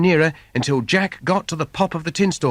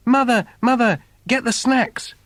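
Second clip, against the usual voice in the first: urgent call; 9 semitones higher than usual. Acted. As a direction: yell for help as the giant closes in. Jack running from the giant.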